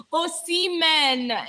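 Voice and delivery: Osimhen drawn out syllable by syllable; careful pronunciation. Shown as a demonstration. Streamer clears up a tricky surname, Osimhen slow and careful. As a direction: say Osimhen slowly and deliberately. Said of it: "It's kind of a tricky name. I can't really pronounce it".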